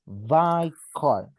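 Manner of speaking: by car said slowly, by as bye; a teacher modelling the English; slow model by car. Shown as a demonstration. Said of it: "voy a decir by car".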